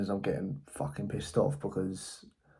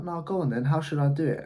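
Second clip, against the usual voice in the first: mock aggressive salesman; 6 semitones higher than usual. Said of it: "he started getting a bit aggressive".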